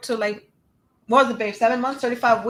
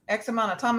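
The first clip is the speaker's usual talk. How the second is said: softer, rising disbelieving repeat of X amount of time; stunned echo; 5 dB quieter than usual. Retold or imitated. Repeating the technician's news back to her, stunned. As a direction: echo the words back in shock. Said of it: "I was like".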